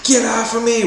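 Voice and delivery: high shrieked mock scream; shrill retold yell of the woman. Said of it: "she's screaming".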